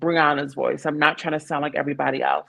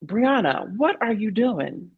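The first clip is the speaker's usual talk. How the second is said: lightly voiced teacher, higher pitched; a hint of exasperated teacher; imitated teacher; 4 semitones higher than usual. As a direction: gently confront a student, as a teacher would. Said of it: "she said".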